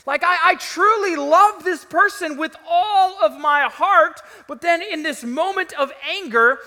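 loud, high, impassioned regret; agonized self-reproach. Acted. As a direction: preach it as someone appalled at their own words. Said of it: "you're left with".

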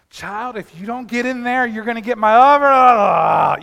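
put-on fed-up parent threatening a kid who keeps asking why. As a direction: lay down the law like a fed-up parent.

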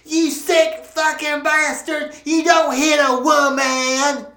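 high, loud furious shrieking; furious scream. Acted. Slapped woman screaming at Charles in fury. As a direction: scream abuse at the man who shoved her. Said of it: "That fat bitch screamed".

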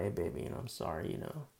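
low, hushed apology to his wife; soft apology. Retold or imitated. Husband apologizing to his wife, hushed and low. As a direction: say sorry quietly and humbly. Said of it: "And I go to my wife".

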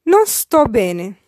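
Non sto bene said slowly, every word clear; slow careful model. Shown as a demonstration. Teacher slowly modelling Non sto bene for learners. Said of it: "I will syllabify each sentence".

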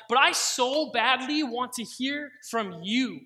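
longing plea. Retold or imitated. Pleading prayer to the Lord.

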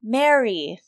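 imitated name, creature's copy; creature imitating her. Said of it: "imitates her voice".

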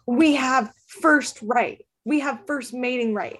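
slow, formal orc proclamation; orcs announcing. Retold or imitated. Orcs announcing to Layla in the park, slow formal proclamation. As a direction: announce it slowly like an orc claiming a right. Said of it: "they're, like, announcing it".

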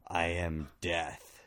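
slow, menacing dragon voice; menacing slow dragon whisper. Acted. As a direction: growl it slowly like a dragon. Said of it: "and she whispers".

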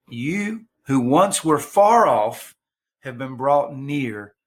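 measured reading with pauses after each phrase; slow scripture reading. Real, not acted. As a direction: read the verses out slowly and deliberately. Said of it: "I'm gonna read them slowly".

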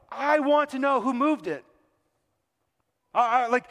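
rising to an indignant demand; Sproul's challenge builds. Retold or imitated. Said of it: "R C Sproul replied".

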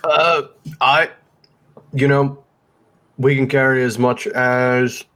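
talking with a mouthful of food; mouth full. Real, not acted. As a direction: say it through a bite of food. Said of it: "I just shoved food in my mouth".

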